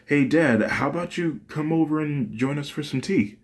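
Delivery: a hint of a daughter smoothing things over; Fuyumi defusing. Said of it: "tries to diffuse the situation".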